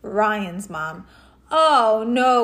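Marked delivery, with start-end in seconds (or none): 1.5-2.4 groan. Acted. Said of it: "groaned Ryan".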